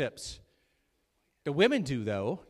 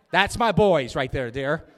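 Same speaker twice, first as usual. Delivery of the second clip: pleased cheer; 9 dB louder, slower than usual. Real, not acted. Cheering the men on.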